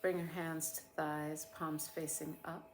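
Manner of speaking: unhurried meditation voice with long pauses; guided meditation. Real, not acted. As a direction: guide listeners gently through a body scan, leaving space after each phrase.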